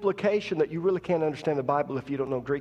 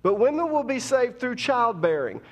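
repeated louder and higher with force; preaching; 6 semitones higher, 3 dB louder than usual. Shown as a demonstration. Preacher repeating the verse to congregation, more forceful. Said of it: "Let's say that again".

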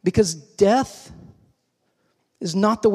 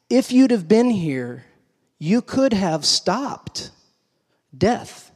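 marveling emphasis; 4 semitones higher, slower than usual. Real, not acted. Preacher marvels at Martha's faith.

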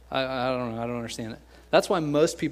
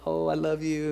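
mushy; 3 semitones higher than usual. Retold or imitated. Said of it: "You know, mushy".

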